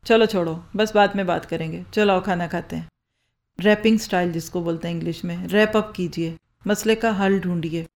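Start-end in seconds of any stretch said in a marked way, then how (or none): 0.0-2.9 soothing wrap-up. Shown as a demonstration. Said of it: "इसकी बजाय आप कहें".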